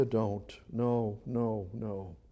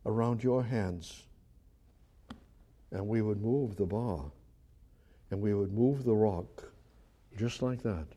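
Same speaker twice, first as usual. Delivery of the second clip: gentle father; 3 semitones lower, 4 dB quieter than usual. Retold or imitated. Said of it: "And the father said".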